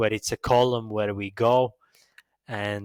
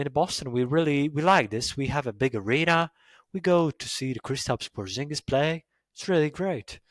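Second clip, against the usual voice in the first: lightly imitated Boston accent, pitched up; 4 semitones higher than usual. Shown as a demonstration. A Boston local on going to the arena, mock Boston accent. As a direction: play a proud Boston local, higher voice. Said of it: "Boston people really talk like this".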